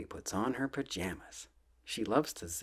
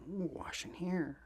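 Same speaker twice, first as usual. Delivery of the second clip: delighted coo; 8 semitones higher, 5 dB quieter than usual. Acted. Reading to baby, voicing reaction.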